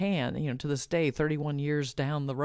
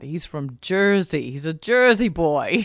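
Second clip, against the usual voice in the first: mock-astonished, louder on the repeat; amazed realization; 7 dB louder than usual. Woman retelling hearing her partner's accent, amused astonishment.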